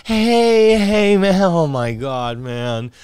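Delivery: put-on high, pleading girl's voice; begging girl. Girl pleading with him for a beer, high and whiny. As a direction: whine like a girl begging a stranger.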